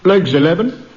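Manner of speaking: bingo caller. Pretend. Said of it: "it goes like this".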